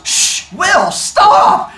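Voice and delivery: loud, high laughing stop; laughing scold. Real, not acted. Teacher telling Will to stop, laughing loud. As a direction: shush him through a laugh.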